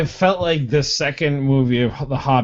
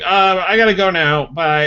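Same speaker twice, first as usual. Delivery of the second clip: mock Gandalf; 6 semitones higher, 3 dB louder than usual. Mock Gandalf leaving abruptly.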